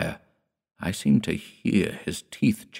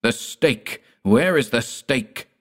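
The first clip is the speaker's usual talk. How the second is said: frantic cry; 6 semitones higher, slower than usual. Acted. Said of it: "cried Dord".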